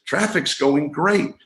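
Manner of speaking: drawn out like a friendly mind-voice; a touch of sing-song inner chatter; cheerful inner voice. Retold or imitated. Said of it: "And the voice says".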